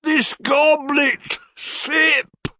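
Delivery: high, very slow, swooning cry; lovesick old gentleman. A narrator's reading. Old gentleman wooing Mrs Nickleby, swooning. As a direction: croon it like a mad suitor. Stranger character voice.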